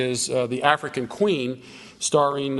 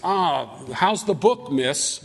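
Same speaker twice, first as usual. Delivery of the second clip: slow, lightly acted wheedling; a touch of ingratiating drunkard; moderate coaxing turn; slower than usual. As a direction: back off and make mild, casual overtures. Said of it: "takes a little moder-, more moderate turn".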